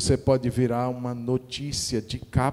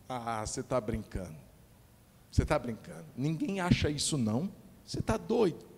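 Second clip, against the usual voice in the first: disbelief; 2 semitones lower, 8 dB quieter, faster than usual. Acted. Acted disbelieving villager.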